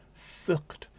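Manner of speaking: unvoiced, breathy whisper. Real, not acted. Admitting exhaustion in a whisper. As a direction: whisper the swear word. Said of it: "what's the phrase I'm looking for?".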